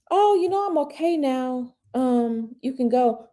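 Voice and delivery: high, soft motherly tone; gentle, too-easy mom. Retold or imitated. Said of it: "You can't be like that".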